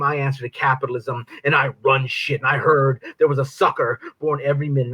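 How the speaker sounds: measured spoken-word delivery of a villain persona; sneering poetry recital; spoken word poem. Acted. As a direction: recite it like a slam poet playing the devil. Performs persona poem The Devil.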